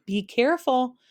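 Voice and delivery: high, loud warning cry; shouting warning. A narrator's reading. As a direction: call out in alarm. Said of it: "shouted Milo".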